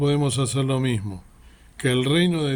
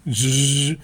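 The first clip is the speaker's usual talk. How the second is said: playful drill noise between questions; dentist drill buzz. Retold or imitated. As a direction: mimic the whirr of a dentist's drill. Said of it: "lo trato de hacer como lo hacía el hermano".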